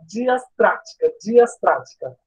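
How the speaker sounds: diastrática spelled out slowly, syllable by syllable; deliberate slow retry of diastrática; careful slow syllables. Real, not acted. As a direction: say diastrática slowly, getting it right. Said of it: "é muito difícil falar".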